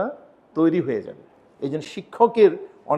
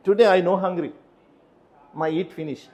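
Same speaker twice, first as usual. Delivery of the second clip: louder, halting broken English; 2 semitones higher, 4 dB louder, much slower than usual. Shown as a demonstration. Teacher mimics a student's word-for-word broken English. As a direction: speak like a learner translating word for word. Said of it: "আমি যদি এখন ধরে যে".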